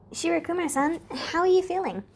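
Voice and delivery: sunny, deliberately cheerful check-in; gaily. A narrator's reading. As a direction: chirp it to steer the talk away. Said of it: "Reverse asks gaily".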